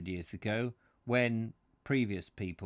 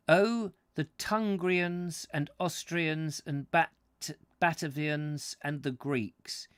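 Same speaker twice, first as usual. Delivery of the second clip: Roman centurion; 6 semitones higher, 5 dB louder than usual. Acted. Plays centurion quoting the song.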